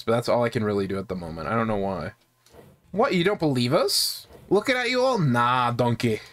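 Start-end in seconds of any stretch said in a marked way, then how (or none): 2.9-6.2 mock ogre voice, swooping pitch; Shrek. Gamer voicing a challenged gang member, hammy Shrek voice. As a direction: play a cartoon ogre, lilting up then dropping. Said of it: "I'm not trying to do a Shrek voice".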